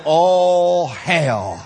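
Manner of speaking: drawn-out, sustained holler; proclaiming shout. Acted. Preacher voices risen Jesus to his followers, proclaiming shout. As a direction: call it out loud and hold the words.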